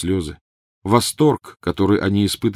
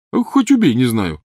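high, loud spat reply; bitter retort; 5 semitones higher, 5 dB louder than usual. A narrator's reading. Ron answering Harry, bitter loud retort. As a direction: fling it back.

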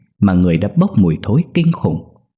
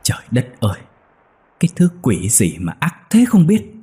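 mild anger. Acted. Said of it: "Chú Thành tức quá".

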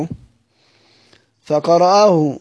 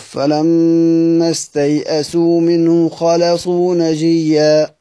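Quran recitation; much slower than usual. Acted. Reciting a Quran verse slowly.

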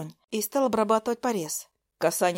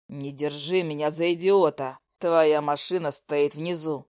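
pressing man; 5 semitones lower than usual. Acted. Lyosha presses angrily.

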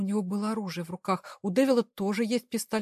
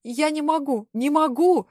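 desperate scream, higher and louder; 6 semitones higher, 8 dB louder, slower than usual. Acted. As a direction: break down screaming the refusal. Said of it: "я закричала".

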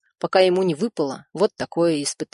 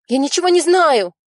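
much higher, louder cry; scream; 10 semitones higher, 5 dB louder than usual. A narrator's reading. Nadya screaming at the killers that she knows nothing. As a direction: scream your denial. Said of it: "крикнула женщина".

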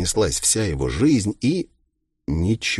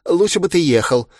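higher, hurried villain voice; glib villain; 7 semitones higher, faster than usual. A narrator's reading. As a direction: explain it away with mild mock helplessness.

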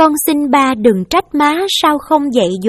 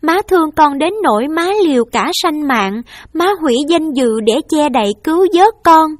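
higher, raised voice, begging through tears; tearful pleading; 5 semitones higher, 4 dB louder than usual. Acted. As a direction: beg your mother to let you take the blame. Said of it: "ôm mẹ khóc và nói".

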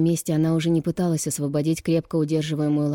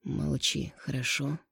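much softer secret instruction; spoken into her ear; 2 semitones lower, 8 dB quieter, slower than usual. A narrator's reading. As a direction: hush her right at her ear. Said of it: "поговорив на ухо".

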